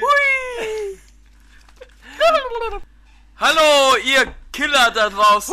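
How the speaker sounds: excited. Acted. Shouted hammy intro.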